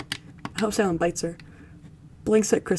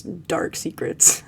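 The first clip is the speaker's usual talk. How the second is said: slow, unvoiced hush; ominous whisper; 2 semitones lower, much slower than usual. Streamer hints at Crystal's dark secrets in a slow hush. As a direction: let it hang like a spooky reveal. Teasing Crystal's hidden past.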